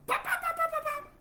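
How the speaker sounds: very high, piercing mock kid yells; kids' shrill shouting. Children running down shouting during the sermon, shrill squeals. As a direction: squeal it like excited little children. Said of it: "bajan esos chinos gritando".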